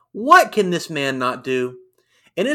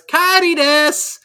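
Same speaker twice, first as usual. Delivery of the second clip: high, slow cutesy anime chirp; anime girl voice; 11 semitones higher, 5 dB louder, slower than usual. Retold or imitated. Retelling Kairi's promo in a cute anime voice. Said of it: "channeling anime girls".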